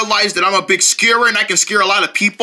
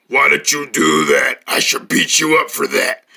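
heart voice; 8 semitones lower than usual. Acted. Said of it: "your heart is talking".

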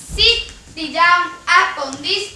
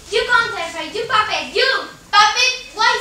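angry insult; 3 semitones higher than usual. Acted. Lovers' quarrel.

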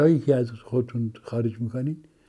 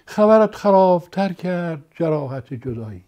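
expressive poem recital; 3 semitones higher, slower than usual. Shown as a demonstration. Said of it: "امکانات صوتی رو هم از این زبان بگیرین".

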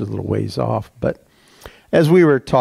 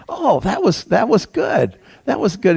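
higher, delighted self-congratulation; pleased with himself; 7 semitones higher than usual. Retold or imitated. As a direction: echo your own happy thought aloud. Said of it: "You know, like".

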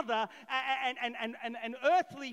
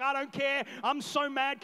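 a touch louder, mock angry; mad mum; 6 dB louder than usual. Mary snapping at Joseph, mild mock anger. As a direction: play the cross mother, half-joking. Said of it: "Mary's like".

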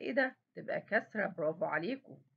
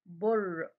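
"بر" with the ر given a little push; "بر" in one syllable, leaning on the ر; pushed final letter; 2 semitones lower than usual. Shown as a demonstration. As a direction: nudge out the ر closing "بر". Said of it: "أكني زقتها كده شوية".

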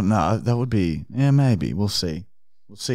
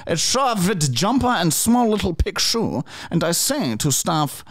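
Arnold Fine voice; 3 semitones higher than usual. Acted. Prank caller voice continues.

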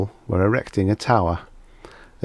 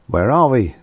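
demanding; 5 semitones higher, 5 dB louder than usual. A narrator's reading. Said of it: "Silla demanded for the tenth time".

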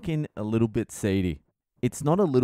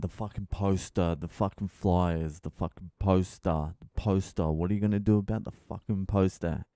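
anxious mutter; 4 semitones lower, 5 dB quieter than usual. Real, not acted. Stressed, muttering about the poster.

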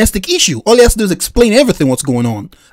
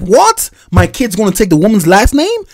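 incredulous retort. Retold or imitated. Retelling his outraged reaction.

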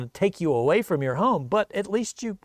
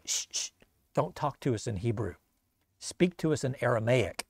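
soft and low, hushing him; urgent shushing, keep it down; hushed urgent plea; 4 semitones lower, 7 dB quieter than usual. Acted. Envoys hush the commander.

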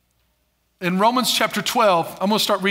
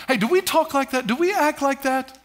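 sharp parent calling hey, hey, higher and louder; scolding parent; 6 semitones higher, 3 dB louder than usual. Retold or imitated. Parent correcting the kids over how they talk. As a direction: pull the kids up short. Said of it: "But say".

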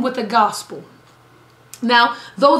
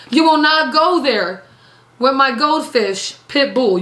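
mock pet owner protest; 2 semitones higher, slower than usual. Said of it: "Come on, evangelist".

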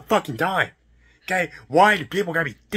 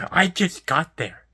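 slow, voiced, emphatic protest; exasperated protest; 2 semitones higher, slower than usual. Real, not acted. Worker insisting to the customer he only just arrived, exasperated. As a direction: spell it out slowly, full voice. Repeats protest, then under breath.

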